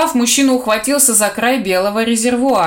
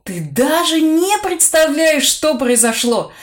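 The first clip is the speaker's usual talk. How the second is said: high, bright excited news; joyful; 6 semitones higher than usual. Acted. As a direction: burst out with happy news. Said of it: "радостно сообщил он".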